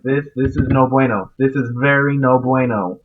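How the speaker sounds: rising alarm as things go wrong; alarmed, loud. Real, not acted. Alarm as enemy attacks.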